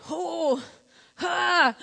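imitated labor moan; acted labor breathing. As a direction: breathe through a pretend contraction. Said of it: "and I'm going".

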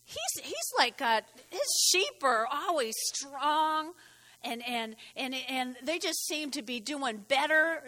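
whiny envious brother, mildly acted; a hint of a sulking Cain; Cain grumbling. Cain voiced complaining about Abel.

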